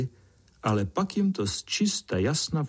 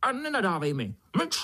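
very high, shrill angry beetle; high angry beetle shouting; 8 semitones higher than usual. A narrator's reading. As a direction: shut him up furiously. Beetle yells at ant.

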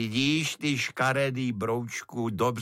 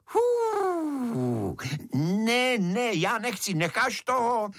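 a much higher, squealing protest; high excited protest; 9 semitones higher, slower than usual. A narrator's reading. Beetle and mother squabble over the fire, squealing. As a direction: fuss and squeal like a small child.

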